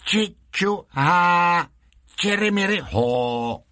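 high chanted syllables with long final vowels; mock Chinese puppet greeting. A narrator's reading. A puppet posing as Chinese greets thrice, mock Chinese chant. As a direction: pitch it high, then drop on the last. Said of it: "a třikrát pozdravil".

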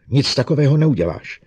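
loud furious refusal; angry. A narrator's reading. Bogart refusing Lening angrily. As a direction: slam it down hard.

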